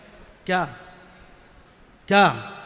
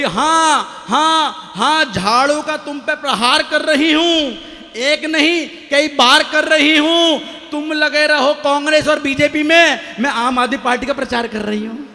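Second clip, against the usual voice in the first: wife's verse; 5 semitones higher, 3 dB louder than usual. Retold or imitated. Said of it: "चार पंक्ति मेरी तरफ से भी ले लो".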